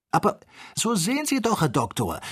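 high-pitched urgent exclamation; insistent high call to the doctor; excited cry. A narrator's reading. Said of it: "schrie Joe abermals".

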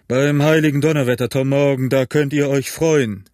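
quick, forceful exclamation; landlord's blustering outburst; calling out. A narrator's reading. Innkeeper warns Tom Morgan, calling out. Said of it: "rief der Wirt".

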